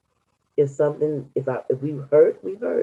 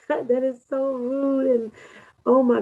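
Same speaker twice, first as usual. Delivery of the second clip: laughing; 8 semitones higher than usual. Real, not acted. Laughing at own sneeze.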